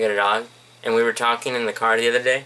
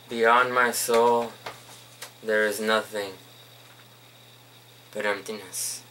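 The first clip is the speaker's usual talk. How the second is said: mock poetry slam. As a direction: drag out each phrase like a gloomy slam poet. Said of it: "Poetry slam".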